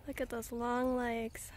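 hushed whisper so the bird stays; whispering at the heron. Real, not acted. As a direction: breathe it out unvoiced. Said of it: "spotting heron quietly".

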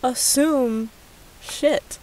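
scolding shout. Real, not acted. Scolding commenter.

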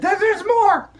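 put-on high, bright child puppet storyteller; squeaky kid character excitedly telling a story; high-pitched puppet girl narrating. Puppet continues.

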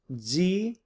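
"zelos" slowly as zi, los; "zelos" drawn out in separate syllables. Shown as a demonstration. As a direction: sound out "zelos" in two parts with a pause. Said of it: "broken them up into syllables".

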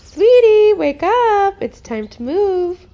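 put-on high, loud call to a sleeping child; waking call. Parent wakes daughter on moving day, high loud call. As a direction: rouse her out of bed.

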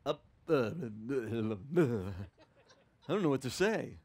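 flustered, laughing it off; awkward laugh. Retold or imitated. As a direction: caught off guard, chuckling nervously. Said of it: "they're like".

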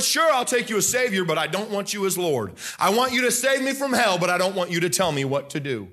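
lightly voiced half-hearted believer; bargaining believer. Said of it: "did you follow him as Lord".

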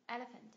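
"elephant" stressed on el; first-syllable stress. Shown as a demonstration. Teacher repeating the model for a student, first-syllable stress. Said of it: "nhấn tiết thứ nhất em ạ".

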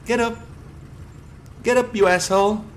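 high, loud gloating; gleeful taunting. Real, not acted. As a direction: gloat as you chase him.

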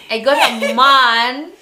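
slow, tipsy giggle mid-sentence. Real, not acted. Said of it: "and I'm drunk".

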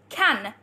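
"Can" with the ending N sounded out; clear final N. Shown as a demonstration. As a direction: finish "Can" on a distinct, held N. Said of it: "We're pronouncing the ending".

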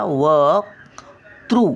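वक्तृ drawn out, the क held before तृ; very slow syllable demo. Shown as a demonstration. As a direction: hold the क in वक्तृ. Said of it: "वकचा उच्चार येतो पहिला". (वक्तृ अगदी सावकाश)

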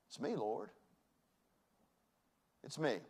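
soft, hushed confession to the Lord; quiet humble prayer; humble whisper of prayer. Pretend. Humble prayer quote in sermon.

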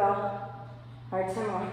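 counting reps mid-exercise; doing Roman twists. Real, not acted. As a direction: count through the strain of twists. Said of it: "my abs are burning".

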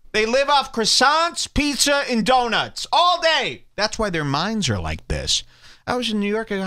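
normal talking voice

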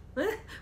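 short, high laugh-it-off chuckle; small burst of brave laughter; forced laugh. A narrator's reading. Wife tries to laugh off husband's jibe, forced laugh. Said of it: "I tried to laugh it off".

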